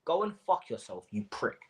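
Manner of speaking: a cold, pointed insult spoken to his eyes; pointed, to his face. Real, not acted. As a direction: say it right to his face, each word aimed. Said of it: "look me in my eyes when I say this".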